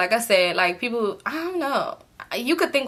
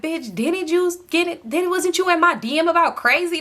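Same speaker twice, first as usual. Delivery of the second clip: mock girl confronting; 6 semitones higher than usual. Girl confronting her after a compliment, higher hostile mock voice. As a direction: play the girl snapping back, higher. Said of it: "she thought I was being funny".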